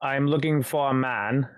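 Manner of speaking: lightly voiced British gangster. Intruder tells the man his errand, British gangster accent. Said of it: "sounding like a British gangster".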